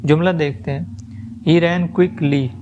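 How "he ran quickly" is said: very slow and deliberate; slow dictation. Shown as a demonstration. Teacher reading an example sentence aloud to the class, very slow. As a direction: spell out each word slowly. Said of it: "teacher reads example sentence".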